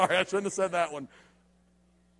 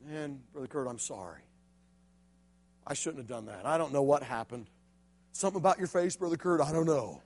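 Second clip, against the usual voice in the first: much softer and lower, a sorry mumble; sheepish apology; 6 semitones lower, 6 dB quieter than usual. Retold or imitated. Josh apologizing to Kurt after the punch, soft and sheepish. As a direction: apologize like a kid caught out. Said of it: "He says".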